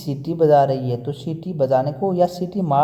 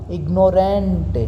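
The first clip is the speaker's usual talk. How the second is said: slow demo; 3 semitones higher, slower than usual. Shown as a demonstration. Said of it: "वो आपके लिए क्या हो गया".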